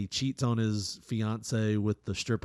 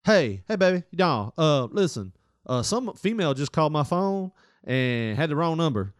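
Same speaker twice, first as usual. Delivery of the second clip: put-on higher, louder rushed excuses to his girl; mock frantic boyfriend, pitched way up; frantic explaining; 5 semitones higher, 5 dB louder than usual. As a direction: cover your tracks in a panic. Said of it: "frantically starts dialing".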